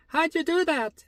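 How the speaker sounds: high-pitched mock princess voice; squeaky acted surprise; astonished princess. Princess astonished in retold story.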